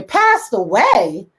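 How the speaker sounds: slow, disbelieving repeat; incredulous echo. Real, not acted. Host scoffing at the Shade Room's wording, slow and disbelieving. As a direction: drag it out like you can't believe it. Mocking the news euphemism.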